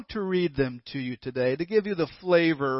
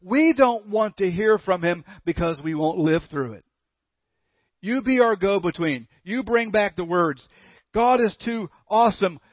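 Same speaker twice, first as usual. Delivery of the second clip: pleading people; 3 semitones higher, 3 dB louder than usual. Retold or imitated. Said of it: "they begged him".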